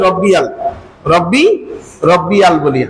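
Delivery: রব্বিয়াল said with a plain আল ending instead of ইয়াল; wrong pronunciation. Shown as a demonstration. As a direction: say রব্বিয়াল as most people wrongly do. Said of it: "অথচ আমরা বলি".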